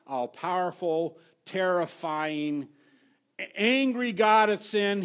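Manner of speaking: hammed-up fire and brimstone; stern preacher warning. Pastor mock-warning the congregation, loud and stern. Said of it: "here's their approach".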